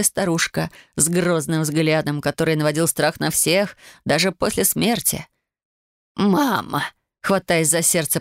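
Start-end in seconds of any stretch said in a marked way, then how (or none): none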